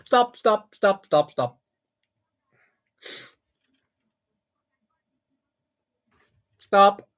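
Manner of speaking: loud urgent stop, stop; shouting stop. Real, not acted. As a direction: call a halt loudly. Halting the launch mid-action.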